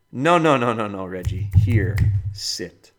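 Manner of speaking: sharp loud no, no, no to the dog; firm dog command. Retold or imitated. Trainer stopping Reggie from running off, loud and firm. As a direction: stop the dog in its tracks.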